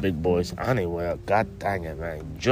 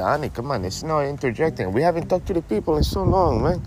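a slightly higher, easygoing stoner-buddy voice; laid-back stoner buddy; 5 semitones higher than usual. Acted. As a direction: play the mellow stoner pal who ends every line with man. Buddy character scolds host.

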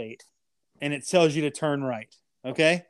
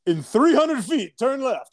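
imitating GPS voice; 8 semitones higher, 5 dB louder, slower than usual. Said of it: "And then it's like".

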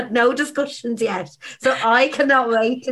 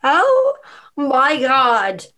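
surprised; much slower than usual. Real, not acted. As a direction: gasp in shock. Shock at model reveal.

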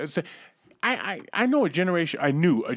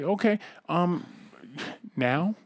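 coy friend voice; slower than usual. Retold or imitated. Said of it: "standing there with his thumbs in his pants".

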